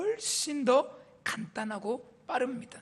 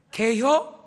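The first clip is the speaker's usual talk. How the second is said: "개혀?" clipped in Chungcheong dialect, a bit louder and higher; 4 semitones higher, 4 dB louder, much slower than usual. Shown as a demonstration. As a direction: snap it out short like a country local. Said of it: "이러면 돼요".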